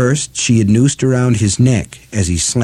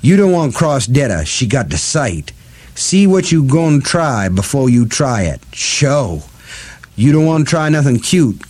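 Detta voice; 3 semitones higher than usual. Acted.

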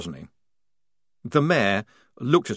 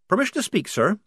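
put-on higher young soldier voice; Polly voice; 11 semitones higher, faster than usual. A narrator's reading. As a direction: voice the young recruit.

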